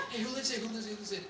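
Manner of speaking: lightly hushed curious whisper; whispering kids. Retold or imitated. Kids in the van asking quietly whose house, hushed. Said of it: "all the kids are whispering".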